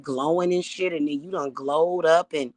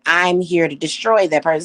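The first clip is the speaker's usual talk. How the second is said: voice of death; 7 dB louder than usual. Retold or imitated. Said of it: "death be looking at me like".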